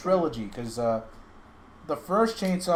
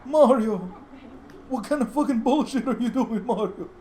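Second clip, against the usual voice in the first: laughing Luigi yell; 13 semitones higher than usual. Acted. Luigi yelling at Mario in a high laughing voice. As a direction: screech at your brother through a laugh.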